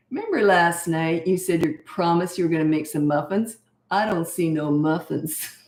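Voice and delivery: lightly voiced little boy holding mom to a promise; mock-solemn kid spokesperson, slowing at the end; eight-year-old son. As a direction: imitate a child calling out a broken promise. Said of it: "He always was the spokesperson".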